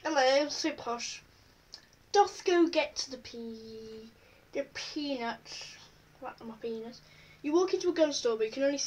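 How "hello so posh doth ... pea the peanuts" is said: slow, hammed-up posh toff; mock posh voice. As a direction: drag the words out like a snooty aristocrat. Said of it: "They're like".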